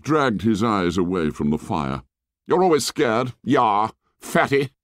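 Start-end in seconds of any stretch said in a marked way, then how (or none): 2.5-4.7 sneering Jack. A narrator's reading. Narrator voices Jack.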